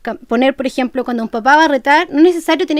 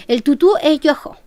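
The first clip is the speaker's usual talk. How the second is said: put-on flat baby words; slower than usual. Shown as a demonstration. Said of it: "Mi entonación fue súper fome".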